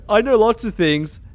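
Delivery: mocking imitation. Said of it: "He was like".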